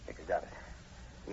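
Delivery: very slow, soft whisper; hushed. Acted. The sergeant to the professor after firing into the brush, hushed. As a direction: breathe it out cautiously.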